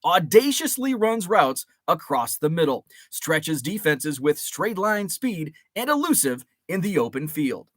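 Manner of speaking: steady broadcaster read; news voice. Shown as a demonstration. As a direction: read it like a radio sports announcer. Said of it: "This is my news voice".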